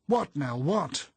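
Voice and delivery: high, loud, startled demand; urgent bewildered cries; alarmed questioning. A narrator's reading. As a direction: demand answers, jolted awake. Startled companion demands what happened.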